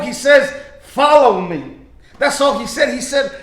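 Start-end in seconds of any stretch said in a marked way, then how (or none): 0.8-1.8 weighty, falling command, louder on the first word; firm command. Acted. Jesus calling Matthew to follow him, firm command. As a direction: say it as a settled order.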